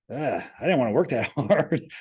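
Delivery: half-laughing imitation of a lazy hire; laughing mock groan. Mocking unwilling recruits, laughing as he groans. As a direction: groan it, then laugh through "hard".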